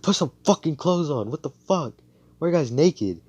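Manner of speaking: loud, high indignant demand; acted flustered scolding. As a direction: scold them in mock shock. Acted embarrassed scolding of naked friends.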